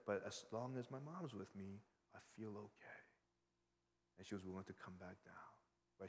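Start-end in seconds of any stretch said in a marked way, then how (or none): 0.1-3.0 at peace. Retold or imitated. Niece once her mom is there, calming and at peace. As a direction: let the agitation drop away into calm. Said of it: "She felt at peace".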